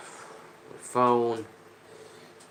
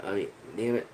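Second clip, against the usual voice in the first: usual speaking voice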